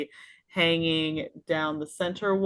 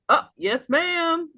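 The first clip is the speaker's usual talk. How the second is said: high, loud eager servant reply; a barkeep answering his lady customer brightly; eager dwarf; 12 semitones higher, 3 dB louder than usual. Acted. Dwarf barkeep answers the lady, high and eager. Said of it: "He's gonna look at her and go".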